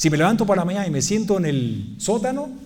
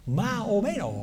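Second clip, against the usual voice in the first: Andalusian "más o menos", lifted and softer; soft, higher Andalusian voice without final s; Andalusian accent; 5 semitones higher, 4 dB quieter than usual. Acted. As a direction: answer sheepishly in Andalusian, "ma o meno".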